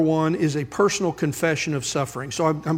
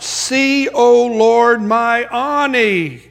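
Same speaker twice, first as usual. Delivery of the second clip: high, loud anguished plea to the Lord; cry of lament; 6 semitones higher, 6 dB louder, much slower than usual. Acted. Preacher voicing Jerusalem crying to God, anguished plea. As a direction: cry out to God in grief, slowly. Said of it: "the cry breaks out".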